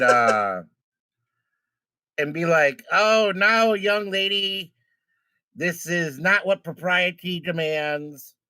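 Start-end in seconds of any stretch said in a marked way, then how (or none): 2.9-8.4 slow, flustered protest at impropriety; flustered propriety. Acted. Good fella to a young lady advancing on him, flustered. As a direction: draw out a flustered, proper scolding. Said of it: "be flustered all over himself".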